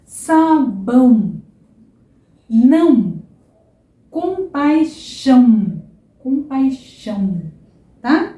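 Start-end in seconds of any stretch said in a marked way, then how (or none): 0.1-1.4 slow sabão, louder nasal ão. Shown as a demonstration. Teacher drilling sabão slowly. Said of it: "Depois a gente tem". 4.1-7.4 slow compaixão with nasal ão. Shown as a demonstration. Teacher drilling compaixão slowly. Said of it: "questão de praticar".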